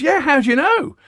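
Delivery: high, loud, eager drummer voice; dim drummer. Retold or imitated. Telling the drummer joke, drummer answers chuffed. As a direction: squeak it out, proud and clueless.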